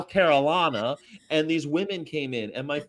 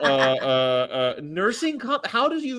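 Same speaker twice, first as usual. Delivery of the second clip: imitated stammering confusion, pitched up; baffled listeners; 7 semitones higher than usual. Baffled women puzzling over his joke, mock confusion. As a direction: mimic people puzzling it out.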